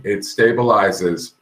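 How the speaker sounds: slow, careful words through a sore jaw; jaw pain. Real, not acted. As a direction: ease the words past an aching jaw. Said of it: "my jaw is hurting".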